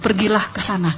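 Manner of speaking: slow, measured divine voice; penuh kasih, berotoritas. Retold or imitated. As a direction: speak slowly as God, loving with authority. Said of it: "suaranya itu penuh kasih, berotoritas". (suara Tuhan, pelan berwibawa)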